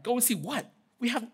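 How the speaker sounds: high, rising incredulous question; mock-baffled sarcasm, WHAT lifting at the end; sarcastic. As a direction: toss the order back sarcastically. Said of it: "they didn't answer with our sarcasm".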